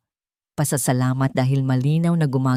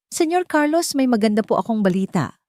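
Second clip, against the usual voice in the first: full of energy; 6 semitones higher than usual. A narrator's reading. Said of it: "ang boses ay puno ng sigla".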